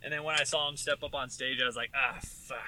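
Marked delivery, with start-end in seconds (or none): 1.9-2.6 whispered curse. Retold or imitated. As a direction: breathe it out unvoiced. Disappointed reaction retold.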